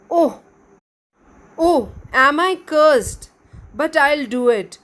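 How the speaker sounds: loud, slow, indignant elf; angry elf. Acted. Elf grumbling angrily at his fate. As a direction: huff it out like a cross little elf.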